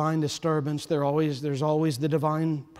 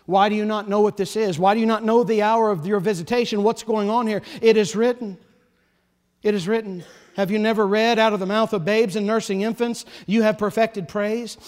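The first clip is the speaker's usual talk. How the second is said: louder, insistent rebuke; rising rebuke; 3 semitones higher, 4 dB louder than usual. Acted. Preacher voicing Jesus rebuking the chief priests, raised. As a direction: press the question harder each time.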